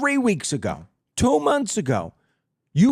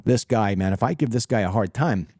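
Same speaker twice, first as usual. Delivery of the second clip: mock Trump musing; 9 semitones lower than usual. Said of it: "sit there and say to myself".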